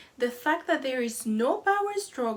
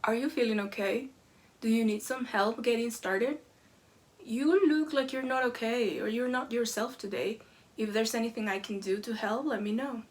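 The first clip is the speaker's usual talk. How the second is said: calm concern. Retold or imitated. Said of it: "calmly walks up to her and whispers".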